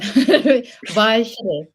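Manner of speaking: "Weichede" tried out with W as V; imitated German pronunciation. Host tries the adviser's last name, "Weichede" with a V. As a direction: copy the German "Weichede", starting on a V sound. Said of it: "the W is pronounced V".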